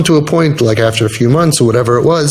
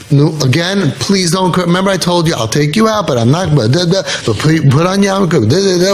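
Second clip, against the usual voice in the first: mock nagging; 3 semitones higher than usual. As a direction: rattle off repeated reproaches, trailing into da-da-da. Mimics volunteers' endless nagging.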